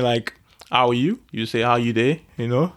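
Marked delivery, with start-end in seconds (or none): 1.6-2.2 casual Nigerian Pidgin greeting. Shown as a demonstration. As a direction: ask it in everyday Nigerian Pidgin. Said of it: "it's called Pidgin English or Broken English".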